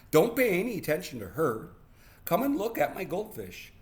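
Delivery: put-on high, quick kid voice; hurried distracting child. Boy steering mother away from sister, hurried.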